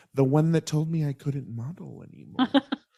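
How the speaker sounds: imitated mutter under the breath. Imitating Tyra Banks after she introduces her first agent: muttering under her breath. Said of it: "under her breath".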